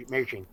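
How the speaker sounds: "amazing" botched into a non-word; slurred slip. Real, not acted. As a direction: flub "amazing" so it is not a word. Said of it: "it was just not a word".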